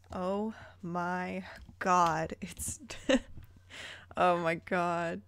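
slow whispered "oh my God"; breathless disbelief, hushed; stunned whisper. Real, not acted. Reading the chapter title La Push, slow stunned whisper.

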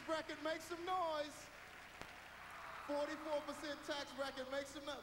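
high-pitched crowd-hyping opener; hype host. Acted. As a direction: welcome the crowd like an excited show host. Hypes up the crowd on opening.

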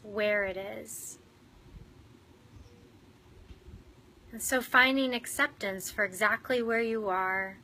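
unhurried meditation guide with long pauses; guided meditation. Real, not acted. Meditation leader inviting listeners into earthworm bodies in the soil, guided meditation. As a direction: guide them gently inward, leaving room to breathe.

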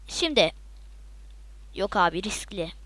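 unvoiced whisper to himself. Real, not acted. Gamer whispering a cautious decision to himself. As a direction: breathe it out under your breath.

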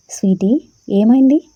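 put-on alarmed question to a crying girl; anxious. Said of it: "అన్నాడు కంగారుగా".

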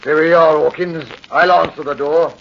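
a lightly voiced London corporal, dropping the h in Hawkins; brisk, dutiful corporal's voice; police corporal. Corporal arrives at the scene.

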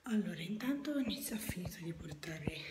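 panting after carrying boxes; breathless, catching her breath. Real, not acted. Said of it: "scusate il fiatone".

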